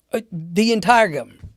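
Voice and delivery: mock astonishment at the size of it; retold incredulity. Marine double-checking his orders with the boss, incredulous.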